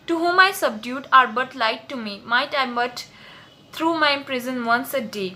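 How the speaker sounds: slow, deliberate Shakespeare recital; teacher reading a play aloud to students; slow dramatic reading. Acted. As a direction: read the verse slowly, weighing each word. Reads Ferdinand's lines slowly.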